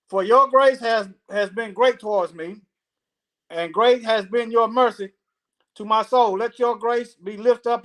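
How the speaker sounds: measured recital with drawn-out key words; scripture reading. Acted. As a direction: read it out phrase by phrase. Reads Noah's prayer aloud.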